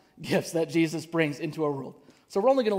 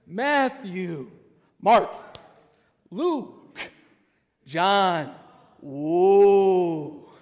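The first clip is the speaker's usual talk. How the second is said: each name in its own manner, ending in a loud awed "Whoa"; four Gospel motions; 6 dB louder, much slower than usual. Shown as a demonstration. Pastor leading the congregation through all four motions again. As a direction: run through Matthew, Mark, Luke, John with a big finish. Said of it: "let's do that one more time from the top".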